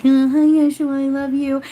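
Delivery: put-on high, loud, slow and wide-eyed like a small child; childlike greeting. Medium replaying how she greets Yeshua, childlike and adoring. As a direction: greet him like an adoring little kid. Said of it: "I also feel very childlike around him".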